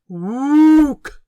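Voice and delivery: loud, high ape hoot; interrupting ape hoot. Acted. The orangutan cuts off the angel with a loud hoot. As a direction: cut him off with an orangutan call.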